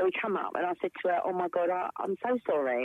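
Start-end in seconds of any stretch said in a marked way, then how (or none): none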